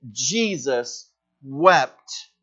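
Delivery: drawn out, heavy, falling; very slow, weighty. Shown as a demonstration. Preacher repeating the verse for weight, very slow. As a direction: stretch each word with grief. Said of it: "the heavy sobbing where you can't catch your breath".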